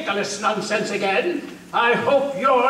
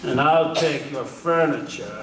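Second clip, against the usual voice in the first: gloating laugh; 2 semitones lower than usual. Acted. Soldier gloating over the Puritans' furniture with a laugh. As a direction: laugh over the loot you are about to grab.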